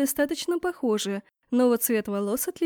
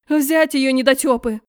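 much louder barked order; angry command; 8 dB louder than usual. A narrator's reading. Empress orders guards to seize girl, angry.

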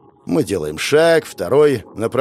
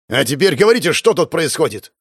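stern boss demanding answers; barked demand; 3 semitones higher than usual. Acted. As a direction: bark the order at them. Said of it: "гаркнул я".

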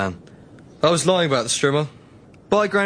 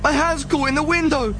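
pained cries; 11 semitones higher than usual. Acted. Grandson with hand stuck in window, yelping. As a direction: cry out, hand trapped.

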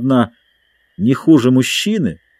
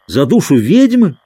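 a startled exclamation, a bit louder; exclaiming; 5 semitones higher, 4 dB louder than usual. A narrator's reading. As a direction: blurt out the question in surprise. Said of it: "воскликнул Дик".

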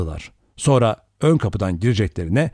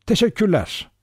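sweet, higher-pitched thanks; sweetly; 10 semitones higher than usual. A narrator's reading. Lombard thanks Vera for her confession, sweetly. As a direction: thank them with sugary politeness. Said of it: "Lombard tatlılıkla".

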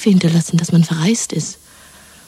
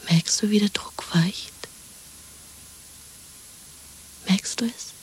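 hushed, breathy secret whisper; 5 dB quieter than usual. Acted. Woman soothing her lover in hiding: soft whisper. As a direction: whisper so no one can overhear.

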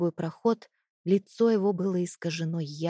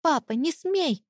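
put-on high, thin, desperate boy's cry; a small son begging his father to stop; desperate child; 9 semitones higher, 3 dB louder than usual. A narrator's reading. Son shouts to stop his father hitting mother, desperate cry. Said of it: "Тонкий, отчаянный голос Матвея".

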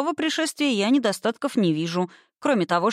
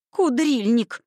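fast chirpy excited tinkerer; 5 semitones higher, much slower than usual. A narrator's reading. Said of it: "пропищал гном".

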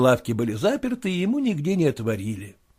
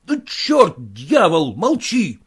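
louder, higher angry shout; 4 semitones higher, 5 dB louder, slower than usual. Acted. Ratakhanov shouts at Goldatin to shut up, furious. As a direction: yell him down in fury. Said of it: "закричал Ратаханов".

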